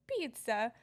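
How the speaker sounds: lightly mimicked Italian accent; Italian boys' accent. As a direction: imitate Italian boys saying it. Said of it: "these two Italian boys".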